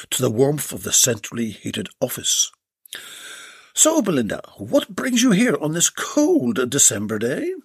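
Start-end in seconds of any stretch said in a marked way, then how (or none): 3.7-7.5 lightly higher friendly man; a host asking her business; Jed's voice. Acted. Jed asking Belinda why she came, higher friendly voice.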